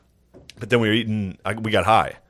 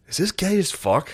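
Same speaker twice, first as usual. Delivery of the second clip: high-pitched, puzzled question to yourself; mock dawning doubt; 9 semitones higher than usual. High viewer questioning the show, high-pitched mock doubt. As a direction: ask it high, as if baffled. Acts out stoned doubt while watching.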